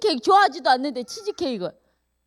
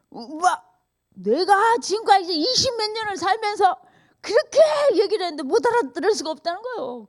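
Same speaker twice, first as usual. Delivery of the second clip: tearful retelling; 6 semitones higher than usual. Retold or imitated. A friend's hurt retold half in tears. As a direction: voice rising high with a teary edge.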